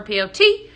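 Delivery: P O T spelled letter by letter as "P, O, T"; dodging the word by spelling "P O T". Shown as a demonstration. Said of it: "why I'm spelling that out".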